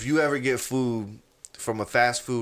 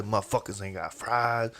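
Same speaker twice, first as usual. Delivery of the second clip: low, softer grumble under the breath; mumbled grumble; 5 semitones lower, 6 dB quieter than usual. Retold or imitated. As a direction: mumble the complaint low, to yourself. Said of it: "he's, he's mumbling".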